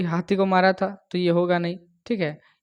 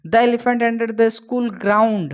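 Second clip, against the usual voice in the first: drawn-out, slightly raised read; very slow reading; 4 semitones higher, much slower than usual. Shown as a demonstration. Teacher reading the question very slowly. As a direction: stretch every word for the class.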